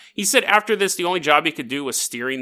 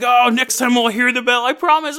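mock pleading; 8 semitones higher, 5 dB louder than usual. Beaten sailor pleading to captain.

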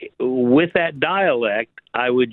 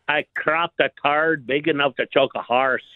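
put-on drunk Sean Connery. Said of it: "you sound like a drunk Sean Connery".

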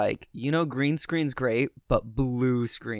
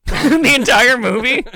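high, loud, slowed-down disbelief; mock disbelief; 12 semitones higher, 10 dB louder, slower than usual. Real, not acted. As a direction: stretch it out in mock shock. Incredulous joke at elephant.

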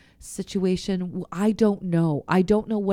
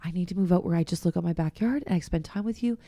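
soft, hushed plea to God; sad prayer; 6 dB quieter than usual. Retold or imitated. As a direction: pour it out quietly, almost whispering. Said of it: "I was just feeling really sad".

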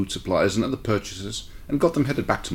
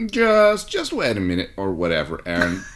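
eager plea; 4 dB louder than usual. Acted. John pleading to stay.

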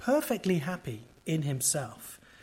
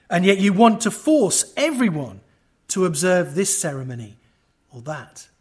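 a hint of an old Reformer preaching, often louder; channeling Calvin; 4 dB louder than usual. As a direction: read the old sermon with growing preacher's fire, louder. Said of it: "I'll try and channel my inner Calvin".

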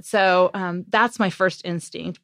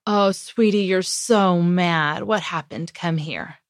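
put-on tender comfort for a furious little boy; nurturing; slower than usual. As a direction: soothe an upset five-year-old gently. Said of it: "So I say to him".

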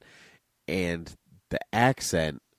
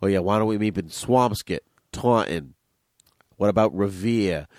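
mock Boston movie townie; hammed-up Boston movie accent. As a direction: lightly parody a Boston accent. Quoting jokes about Boston-accent movies.

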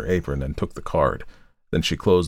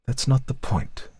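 slow, cool, higher-pitched dismissal; cold; 7 semitones higher, 3 dB quieter than usual. A narrator's reading. Wife brushes off the lawyer's point, coldly. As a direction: dismiss it coldly, taking your time. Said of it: "she said coldly".

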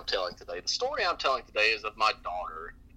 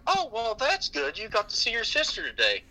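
relieved cashier; 9 semitones higher than usual. Retold or imitated. Cashier relieved and comforting the girl, higher. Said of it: "she's like".

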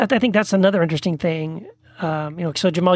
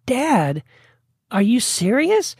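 incredulous; 6 semitones higher, much slower than usual. Retold or imitated. Incredulous reply to father.

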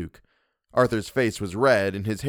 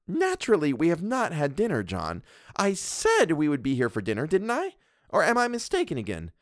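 higher, bossy wife's voice; a domineering wife scolding her husband; Mrs Montague; 7 semitones higher than usual. Acted. Mrs Montague lectures the doctor, haughty and bossy.

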